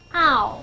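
ow as one gliding vowel, ah into oo; ow said as an isolated diphthong; vowel demonstration. Shown as a demonstration. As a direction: model ow clearly on its own. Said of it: "它常常会发作".

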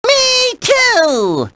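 high squeal of glee; eager excitement. Acted. Host is ready to compose too, eager excitement.

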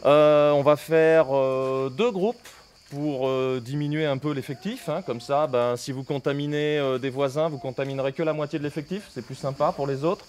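muffled behind a mask; speaking through a surgical mask; through a face mask. Real, not acted. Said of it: "on se reçoit avec le masque". (voix à travers un masque)

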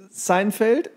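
ordinary talk, nothing marked

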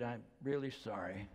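soft, low, heartfelt condolence; sincere condolence. Retold or imitated. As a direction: quietly retell a nurse's sincere sympathy. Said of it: "I knew that she was".

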